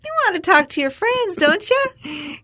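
mock interrogator. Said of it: "fall down during an interrogation".

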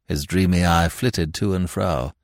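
ordinary delivery, nothing marked

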